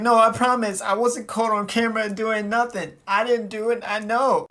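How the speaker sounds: high-pitched imitated denial; mock pleading. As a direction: plead innocence like a caught girlfriend. Imitates girlfriend pleading innocence.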